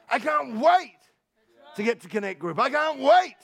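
bursting, loud declarations of love to God; eager worshipper, rising to a shout; excited prayer. Acted. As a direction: shout it out like you can't wait for church. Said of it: "It's to live a life that says".

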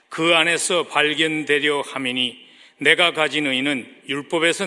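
measured, projected Bible reading; formal public reading of scripture. Acted. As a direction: read the verses out firmly to a congregation. Reads final verse with congregation.

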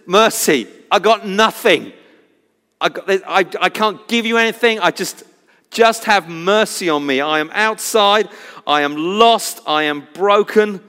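imitating a desperate plea; retold cry for mercy. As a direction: plead as the beggar, half crying out. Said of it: "he screams out for his attention".

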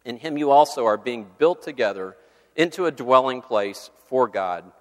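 formal reading of Ephesians, swelling on key phrases; preacher reading Bible verses to the church; scripture reading. Acted. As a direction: read the verses with building emphasis. Reads Ephesians passages aloud.

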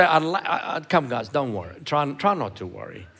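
quiet, coaxing, half-hearted plea; soft pleading. Retold or imitated. Preacher mocking a timid version of Jesus' command, quiet and pleading. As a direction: coax them gently, as if begging them not to worry. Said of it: "It doesn't say".

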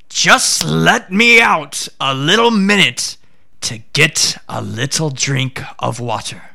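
sly tiger, wheedling lightly; tiger begging. Acted. Caged tiger begs the Brahmin for water, lightly voiced wheedling.

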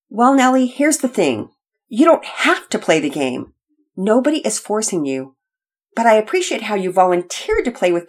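softened after the outburst, gently persuading; gentle. Acted. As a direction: reason kindly with an upset child. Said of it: "Daddy Peters spoke so gently".

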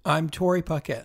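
a touch of forties newsreel announcer. Real, not acted. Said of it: "like, newsreel of the forties and the fifties".

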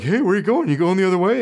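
a dog tagging along, begging for attention; eager dog. Retold or imitated.

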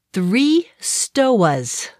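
dropped R Boston stores; Boston accent. Retold or imitated. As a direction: say stoas the Boston way. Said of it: "gotta love the Boston accent".

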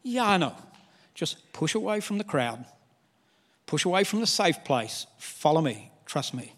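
quiet, reassuring call to follow; Jesus gently urging. Retold or imitated. Jesus answering the sick believer, soft and reassuring. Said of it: "Hey, Jesus".

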